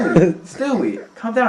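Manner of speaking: laughing high and loud through the words. Real, not acted. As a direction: crack up while calling his name. Laughing at Stewie's pirate act.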